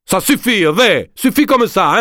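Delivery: voix aiguë et lente, bouleversée; supplie, à bout de nerfs; chaviré. Acted. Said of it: "chaviré". (voix chavirée, aiguë et traînante)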